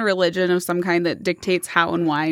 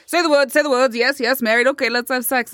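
hurried, slightly raised mock officiant; impatient cult leader; 4 semitones higher than usual. Joseph Smith hurrying a sham wedding, mock impatient voice. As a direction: lightly mimic someone rushing through vows.

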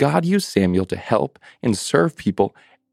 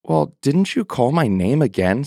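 put-on confused boy; 5 semitones higher than usual.

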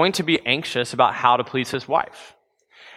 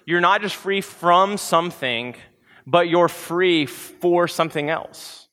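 "free from something" and "free for something else" spoken slowly, each word weighed; slow and deliberate; 3 semitones higher, slower than usual. Shown as a demonstration. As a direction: lean into it slowly, weighing "from" against "for". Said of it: "He's saying you're not just free".

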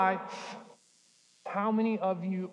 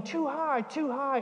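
high, light imitation of a toddler's yell; mock child yell; 6 semitones higher, slower than usual. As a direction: pipe it up like a little kid. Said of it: "she would start yelling".

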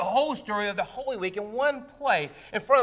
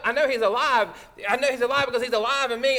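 louder, with the second line rushed and fast; loud testimony; 5 semitones higher, 7 dB louder, faster than usual. Retold or imitated. Another worshipper standing to shout the testimony, fast. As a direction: call it out fast and full. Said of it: "another person stands up".

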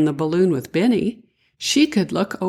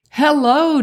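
high, louder joyful greeting; shouting hello; 10 semitones higher, 5 dB louder than usual. A narrator's reading. Children greeting the visitors in their yard, shouting hello. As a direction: call out a happy welcome. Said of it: "Davy and Callie shouted together".

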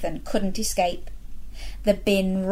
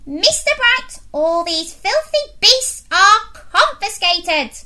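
commanding headmistress; 11 semitones higher, 6 dB louder than usual. Acted. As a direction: lay down the law with disgust. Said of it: "snapped Miss Bloat".

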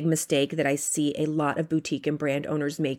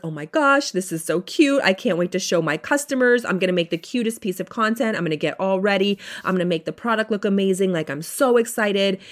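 imitating excited owner. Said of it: "You feel so excited".

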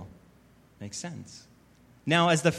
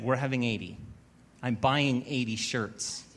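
firm Lauren; 3 semitones lower than usual. Retold or imitated. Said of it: "She said it just like that".

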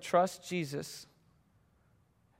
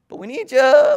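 urgent dad; 8 semitones higher, 13 dB louder, slower than usual. Retold or imitated. Dad urging son at bat.

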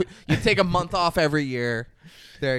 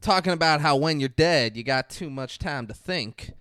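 put-on Southern accent. Podcaster quoting the film's opening narration, mock Southern accent. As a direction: imitate an insane Southern accent. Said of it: "we hear an insane Southern accent".

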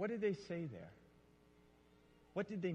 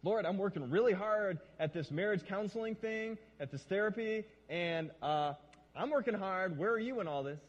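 accusatory prayer; 3 semitones higher, 4 dB louder than usual. Retold or imitated. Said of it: "having this accusatory tone".

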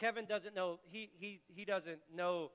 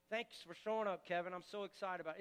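welcoming convicting voice; 2 semitones lower, 4 dB quieter than usual. Acted. God welcoming Kevin to devotions, soft and glad. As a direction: welcome him without a word about the past.

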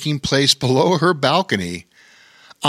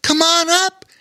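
imploring. A narrator's reading. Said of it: "she implored".

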